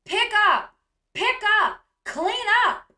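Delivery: loud, high mock orders; imitated screaming. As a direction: mimic her screamed commands to the children. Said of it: "and screams".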